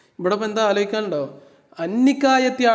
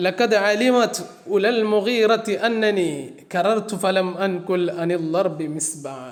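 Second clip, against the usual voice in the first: slow verse recitation; slower than usual. Shown as a demonstration. Teacher reciting a boastful Arabic couplet to students, slow chant. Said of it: "teacher recites the poet's boast".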